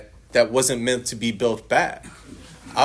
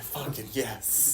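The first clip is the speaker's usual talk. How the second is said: laughing agreement; 13 dB quieter, much slower than usual. Retold or imitated. Agreeing he looks like shit.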